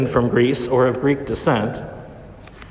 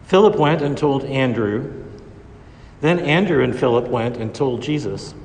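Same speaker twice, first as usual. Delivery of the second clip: Gospel reading. Acted. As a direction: proclaim it from the ambo. Proclaims the Gospel at Mass.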